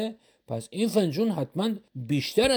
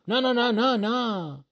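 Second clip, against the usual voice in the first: stubborn refusal; 9 semitones higher, slower than usual. Acted. Shopkeeper refusing to sell the cup, quick higher no's. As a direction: shake it off fast, no no no.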